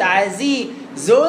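عزيز ذو with a long held nasal before the tongue-out dhal; prepared dhal. Shown as a demonstration. Teacher showing time to prepare the dhal, held nasal. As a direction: hold the ghunna, then land cleanly on ذو. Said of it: "تجيب الذال".

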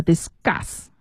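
discuss said dis-GUS, c turned to g; voiced c after s. Shown as a demonstration. Teacher settling the question for learners, discuss with voiced g sound. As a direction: discuss with an unaspirated g-like c. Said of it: "都要浊化".

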